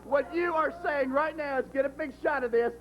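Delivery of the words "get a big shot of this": mock quote of Tony, level and plain. Mocking Tony to Brian, first take plain. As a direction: put words in Tony's mouth, deadpan. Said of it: "This is what Tony's saying".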